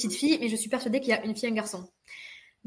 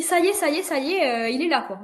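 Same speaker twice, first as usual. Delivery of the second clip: louder and higher retold cry; mock urgent cry, higher; 6 semitones higher, 5 dB louder than usual. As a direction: call out that the baby is coming. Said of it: "Et je crie".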